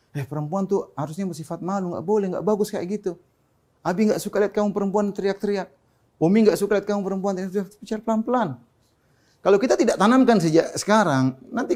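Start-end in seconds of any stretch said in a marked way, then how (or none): 0.1-8.5 softly chiding a daughter, voice slightly raised in pitch; gentle parental admonishing. Acted. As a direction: correct her quietly, like a patient parent. Parent gently correcting daughter's shouting. (menegur anak dengan lembut)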